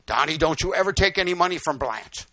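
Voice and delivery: loud, insistent parental warning; lightly voiced stern mother. Mother warning her son about the widow's money, lightly voiced stern order. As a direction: lay down the rule, a hint of mom.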